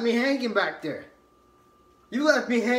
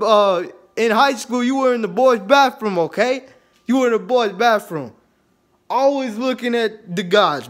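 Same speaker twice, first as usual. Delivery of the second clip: put-on belligerent drunk; 6 dB louder than usual. Drunken quarrel, shouting at friend.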